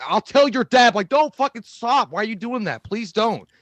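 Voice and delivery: high, urgent mock begging; imitated panicky plea; acted-out pleading. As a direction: plead high and loud, like a threatened kid. Acting out scared pleading at threat.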